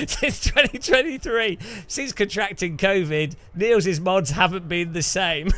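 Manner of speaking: light mock Dutch accent. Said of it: "That's my Dutch".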